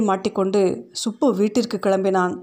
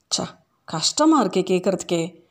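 pained whisper; 2 semitones lower than usual. Acted. Pained reaction to sad story.

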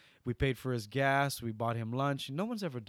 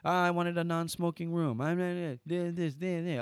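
higher-pitched imitation of griping guests; mock angry complaining; 5 semitones higher than usual. Angry guests griping at the front desk, mock complaining. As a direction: grumble like an irritated customer, only half yelled. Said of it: "yelling at the front desk".

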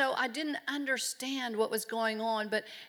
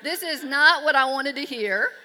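laughing protest; 4 semitones higher, 8 dB louder than usual. Real, not acted. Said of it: "I thought".

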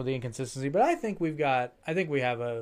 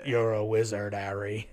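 imitated British accent; 3 semitones lower than usual. Film quote with dropped H.

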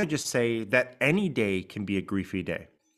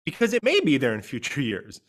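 may pushed out as the key word; stress on may. Shown as a demonstration. Host reassuring listeners support can stay, stress on may. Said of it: "I'm also gonna stress the word may".

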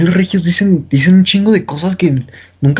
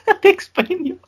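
laughing echo; slower than usual. Real, not acted. Echoing partner's chilango line.

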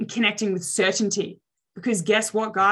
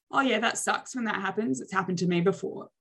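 deadpan; 4 dB quieter than usual. Shown as a demonstration. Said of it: "have a deadpan face and go".

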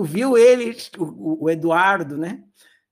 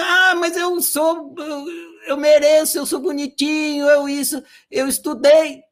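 higher, mocking whiny excuses; whiny entitled excuse; 6 semitones higher than usual. Teacher mocks people claiming they deserve it, whiny. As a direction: mimic a spoiled person pleading.

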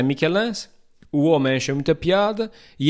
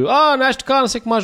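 high, louder mock remark; teasing passenger; 12 semitones higher, 5 dB louder, faster than usual. People on transport remarking on his accent, high mock voice. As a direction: poke fun at the accent lightly. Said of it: "quando o pessoal diz".

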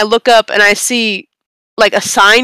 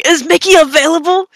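mom bursting in; 6 semitones higher than usual. Retold or imitated. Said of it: "my mom bursting through my door ... going".

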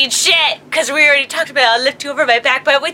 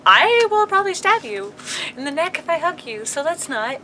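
laughing threat; 6 dB quieter than usual. Retold or imitated. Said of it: "I'm like".

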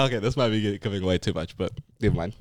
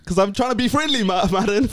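laughing; 8 semitones higher than usual. Real, not acted. Laughing after being teased.

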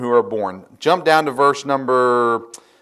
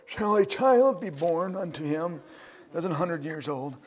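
laughing Abraham; 3 semitones higher, 9 dB quieter than usual. Acted. Preacher rereads Abraham laughing in his heart, amused disbelief. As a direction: read it softly, as if tickled and disbelieving. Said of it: "I should read that correctly".

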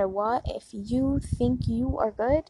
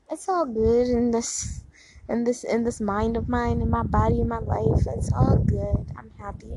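reassuring yourself. Shown as a demonstration. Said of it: "This is just reassuring yourself".

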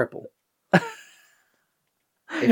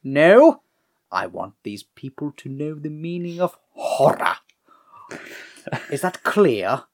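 British; 4 dB louder than usual. Retold or imitated. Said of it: "One of them's British".

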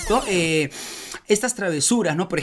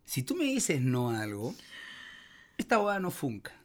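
hushed off-air aside, much softer; 11 dB quieter than usual. Real, not acted. Host quietly coaching his guest off air, hushed. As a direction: drop your voice so only the guest hears. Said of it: "salimos del aire un rato".

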